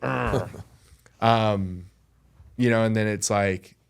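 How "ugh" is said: higher frustrated "ugh"; frustrated groan. Acted. Mad at himself without knowing why, frustrated groan. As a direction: groan like you're fed up.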